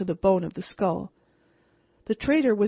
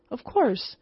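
higher, startled of course; surprised reply; 5 semitones higher than usual. Acted. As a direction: answer as if the question is odd. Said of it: "I replied in surprise".

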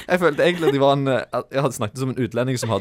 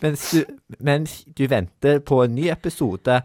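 higher, put-on baby talk, close to cracking up; 4 semitones higher than usual. Presenter resuming his penalty sign-off, mock baby talk. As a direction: try baby language with a lifted pitch. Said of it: "på babyspråk".

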